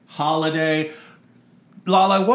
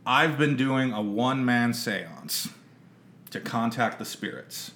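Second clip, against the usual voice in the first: spooky hush; 7 semitones lower, 7 dB quieter than usual. Acted. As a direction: lower the voice like telling a secret. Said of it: "unbeknownst to you".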